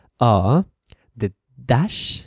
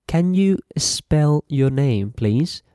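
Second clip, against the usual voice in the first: slow model phrase; 4 semitones higher, slower than usual. Shown as a demonstration. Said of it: "you can say to the other person".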